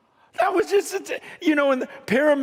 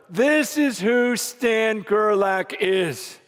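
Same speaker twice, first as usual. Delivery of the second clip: slow solemn introduction; slower than usual. Retold or imitated. Jesus presenting him to Father.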